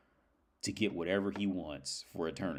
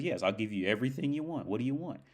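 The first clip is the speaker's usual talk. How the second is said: a hint of the guide, pitched up; lightly voiced obliging guide; 5 semitones higher than usual. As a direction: lightly act the guide granting a wish. Guide answers the robber.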